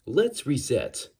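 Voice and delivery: slow, over-enunciated synthetic voice. Shown as a demonstration. Man resetting his voice demo, slow AI enunciation. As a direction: restart as a measured talking computer. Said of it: "By talking like this, I can sound sort of like an A I".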